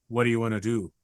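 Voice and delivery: helmet voice modulator, robotic with a slight Irish lilt; evil robot voice. Acted. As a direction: speak like an evil robot through a helmet speaker. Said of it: "it just sounds like ... an evil robot man with a slightly Irish accent".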